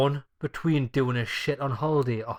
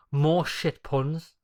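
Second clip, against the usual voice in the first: very slow, dragging each word; slow drawn-out ending; 3 semitones higher, 5 dB louder, much slower than usual. Real, not acted. Host dragging out the next topic, very slow. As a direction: drag out the words lazily.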